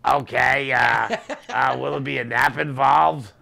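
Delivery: loud, grating Gilbert Gottfried squawk; Gilbert Gottfried impression. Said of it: "So Gilbert's like".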